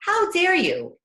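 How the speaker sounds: high, affronted mock retort; indignant. Parent told to relax mid-tantrum, mock indignant. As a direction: fire back as if insulted. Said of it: "I would be like".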